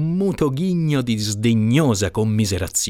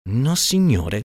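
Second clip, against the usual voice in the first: firm denial; 3 semitones higher, slower than usual. Acted. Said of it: "col tono di chi non ammette scherzi".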